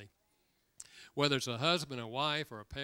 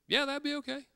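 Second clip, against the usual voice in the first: brother's reply; 13 semitones higher, 5 dB louder than usual. Retold or imitated. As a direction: mimic the brother's surprised, cautious yes. Brother's reply to phone call.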